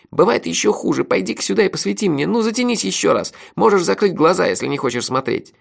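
high-pitched urging; unnaturally ringing voice. A narrator's reading. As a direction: urge a friend over in a high, ringing voice. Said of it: "Голос Мелифара показался мне неправдоподобно звонким". (неестественно звонким голосом)

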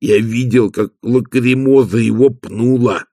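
slow, understated gloom in Igor's voice; gloomy. Acted. Igor reports the dog being kicked, slow and mildly gloomy. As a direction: dwell darkly on the kick. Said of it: "мрачно сказал Игорь".

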